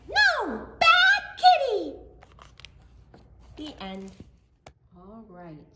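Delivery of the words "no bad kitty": high, loud playful telling-off; scolding. Acted. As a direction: scold it like to a naughty cat. Scolding the lion at story end.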